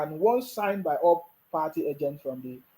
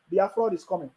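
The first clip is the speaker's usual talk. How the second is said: softer mocking echo; mocking echo, quieter. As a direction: repeat the chant more softly. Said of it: "they are shouting on social media".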